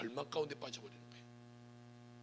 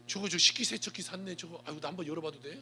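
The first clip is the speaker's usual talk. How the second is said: gushing nosy visitor; 3 semitones higher than usual. Retold or imitated. Nosy visitor gushing over dishes.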